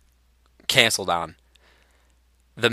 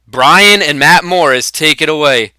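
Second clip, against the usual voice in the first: announcer intro; 6 semitones higher, 7 dB louder than usual. Acted. Host hands off to debaters.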